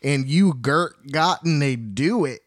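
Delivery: put-on Southern US twang; southern drawl. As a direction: imitate a folksy southern drawl. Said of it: "Dorothy gets a southern drawl".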